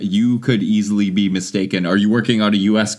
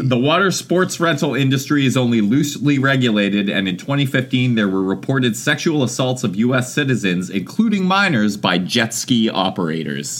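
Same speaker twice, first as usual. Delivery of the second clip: reading advisory. Acted. Reads advisory.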